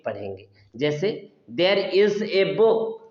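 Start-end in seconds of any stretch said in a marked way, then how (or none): 1.6-3.0 slow, "a" said as a full ay; stressed a. Shown as a demonstration. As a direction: lean on "a" as ay. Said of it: "जब हमें stress देना हो". ("a" पर ज़ोर, ए की तरह, धीमे)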